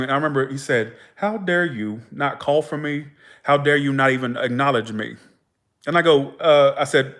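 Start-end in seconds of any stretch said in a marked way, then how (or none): 1.2-5.2 retold scolding. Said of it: "he was scolding me in the dream".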